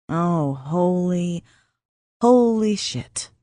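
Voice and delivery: slow, drawn-out shocked curse; stunned disbelief. Acted. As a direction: let the shock stretch it out. Max stunned by the sight.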